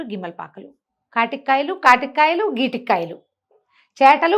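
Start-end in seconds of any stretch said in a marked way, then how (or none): none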